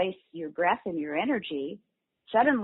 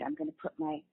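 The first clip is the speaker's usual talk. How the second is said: inner voice; 9 semitones higher, 6 dB quieter, faster than usual. Shown as a demonstration. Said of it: "if you imagine in your mind".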